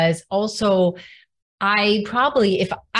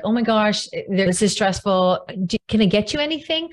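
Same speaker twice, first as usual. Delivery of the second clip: smother her with sympathy, hurrying the question; mock over-sympathetic flutter; over-empathetic fuss. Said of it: "some over empathetic energy".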